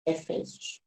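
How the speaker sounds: a breathless whisper of the book name. Real, not acted. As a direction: whisper it, almost to yourself. Sussurra o nome do livro.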